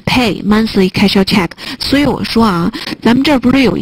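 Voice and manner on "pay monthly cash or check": slow, Pay, monthly, cash, check each stressed; stressed words. Shown as a demonstration. Teacher pointing out the heaviest stresses, slow and stressed. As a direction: spell out the heavy words. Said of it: "最重的重音就是这几个词".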